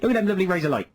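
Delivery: West Country yokel voice; broad West Country farmer; West Country accent. Shown as a demonstration. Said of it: "Sort of in a West Country accent".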